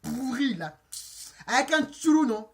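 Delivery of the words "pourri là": African-accented mock threat. Storyteller replaying her threat to the driver, African accent. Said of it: "Avec mon accent africain".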